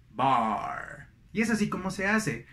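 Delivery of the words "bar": low "bar" with open ah; contrast drill. Shown as a demonstration. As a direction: end the list on "bar". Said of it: "es muy útil el contraste". ("bar" grave, con A abierta)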